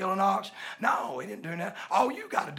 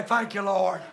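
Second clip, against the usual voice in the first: lottery winner joy. Shown as a demonstration. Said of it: "like you just won the lottery".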